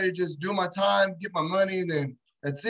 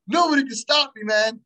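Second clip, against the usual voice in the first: cocky inmate boast; 4 semitones higher, 5 dB louder than usual. Retold or imitated. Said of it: "He goes".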